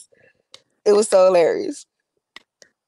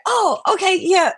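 jumping up high and light on oh, okay; brushing it off in a squeaky put-on voice; mock casual reply; 12 semitones higher than usual. To the comments after scrolling, a high mock-casual okay. Herself coming back to the phone.

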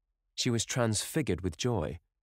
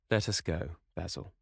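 strange tenderness. Acted. Lord Henry to Basil, a touch of tenderness. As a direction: gently lead him away. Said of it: "with a strange tenderness in his voice".

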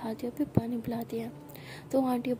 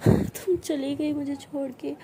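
louder, slow tearful plea; crying; 3 semitones higher, 5 dB louder, slower than usual. Acted. Aana crying to her partner that she feared being left. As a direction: choke it out through tears, pleading. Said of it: "तो आना इतना रोती है".

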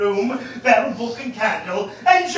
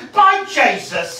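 furious oath; 4 semitones higher, 5 dB louder, slower than usual. Acted. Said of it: "says he".

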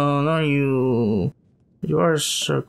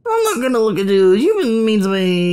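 higher, louder, quick pouty complaint; sulky girl voice; 4 semitones higher, 3 dB louder than usual. Pretend. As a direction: huff like a hurt little girl. Voicing the statue's complaint.

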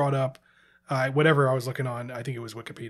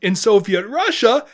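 hammed-up Russian accent, slow, building louder and higher on each punchline; comic Russian accent with a yelled slow payoff; 4 semitones higher, 7 dB louder, slower than usual. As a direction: Yakov Smirnoff style Russian reversal, punchlines belted out slow and loud. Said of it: "my Russian accent".

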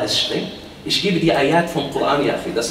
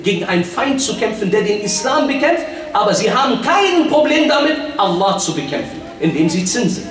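raised, high preaching voice; forceful preaching; 8 semitones higher, 3 dB louder than usual. Real, not acted. Preacher accusing Muslim countries, forceful. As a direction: drive the accusation home.

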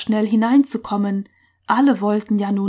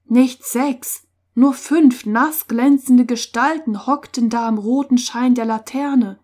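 ordinary delivery

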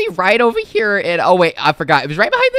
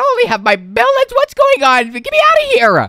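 high, hammed-up plea; pitched-up gamer distress; mock panic; 13 semitones higher than usual. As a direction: demand escape in playful alarm. Acted panic at waking in prison.

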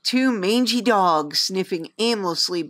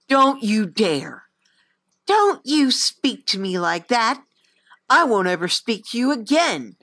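mild anger; 2 semitones higher than usual. Acted. Angry outburst at her.

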